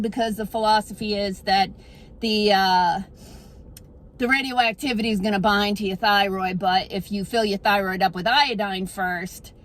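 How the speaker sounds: put-on thick Boston accent throughout. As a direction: talk like a local from Boston. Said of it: "bust out my Boston accent".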